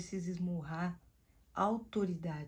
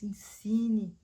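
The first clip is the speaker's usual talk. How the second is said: sussurro; 2 semitones higher, 6 dB louder than usual. Acted. Sussurro enfático.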